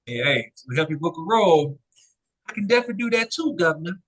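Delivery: quick mock British accent; a playful stab at a British accent. Friend hamming up a British accent for the host. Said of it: "do that accent one more time".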